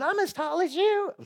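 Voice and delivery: high, light mock protest; mimicking Jules. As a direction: quote her in a squeaky voice. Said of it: "She says".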